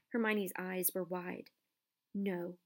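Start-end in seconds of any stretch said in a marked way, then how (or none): 2.1-2.6 slow, deliberate no; slow firm denial. Acted. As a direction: friend defends teacher, slowly and firmly. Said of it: "she said".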